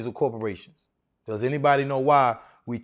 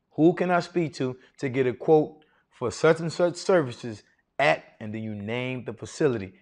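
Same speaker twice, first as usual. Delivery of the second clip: calm confident ask; 4 semitones lower than usual. Shown as a demonstration. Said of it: "with confidence and authority".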